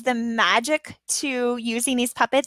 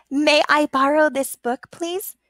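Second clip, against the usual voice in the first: put-on polite child voice; 3 semitones higher than usual. Shown as a demonstration. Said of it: "I use her to explain that".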